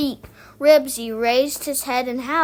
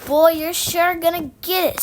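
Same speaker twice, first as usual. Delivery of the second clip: loud, higher-pitched taunt; gloating; 5 semitones higher, 5 dB louder than usual. A narrator's reading. Scooter to Henry as police take him, loud gloating. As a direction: crow it at him, raised and loud.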